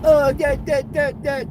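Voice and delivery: high-pitched mocking squawk; mock womanish falsetto; mock no-bass voice. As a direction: imitate him with a squeaky, bassless jabber. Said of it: "Got no bass in your voice".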